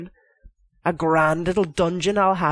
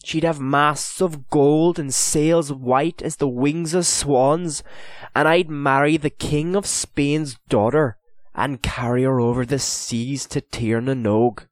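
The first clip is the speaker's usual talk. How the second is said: dreamy; 4 semitones higher, 3 dB louder than usual. Acted. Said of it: "he said dreamily".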